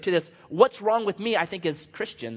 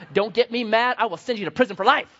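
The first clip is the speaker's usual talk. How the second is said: loud, higher mock threat; 4 semitones higher, 4 dB louder than usual. Preacher jokes about his gift for jailing people, mock threat. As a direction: playfully threaten at raised volume.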